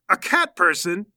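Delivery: slow, loud questioning rise; incredulous question. Acted. Onlooker learns who the fighter is, incredulous question. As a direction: echo it back in disbelief. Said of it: "McGoffel goes".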